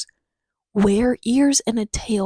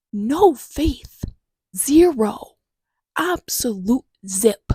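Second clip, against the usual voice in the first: mock outrage; 2 semitones higher, 4 dB louder, much slower than usual. Real, not acted. Exasperated complaint about mom.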